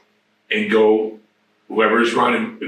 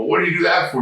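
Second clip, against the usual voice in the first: baffled question; 7 semitones higher, much faster than usual. Retold or imitated. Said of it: "I go".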